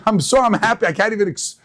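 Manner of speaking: gushing, can't find the words; overjoyed lottery winner. Retold or imitated. Lottery winner telling a fan how happy he is, mock-overwhelmed. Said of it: "they're screaming from happiness".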